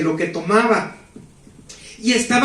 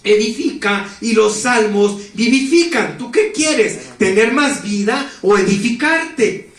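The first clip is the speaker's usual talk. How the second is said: angel's voice; slower than usual. Retold or imitated. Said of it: "Él decía".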